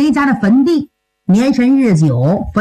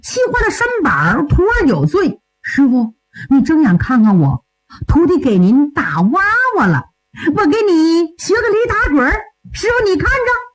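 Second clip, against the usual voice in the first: mildly wheedling, pitched up; 哄师傅消气; 4 semitones higher than usual. Acted. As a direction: coax the offended master like a playful youngster. Disciple coaxing his angry master. (略提高嗓音，央求着哄师傅)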